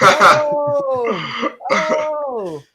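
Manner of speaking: high, loud shocked cry. Retold or imitated. Player seeing his own broken leg, high shocked oh. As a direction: let out a stunned high oh.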